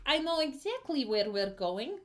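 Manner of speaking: the guide's voice tipping upward in pitch; voice jumping up. Acted. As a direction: let the put-on voice climb as it goes. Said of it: "went up a couple octaves".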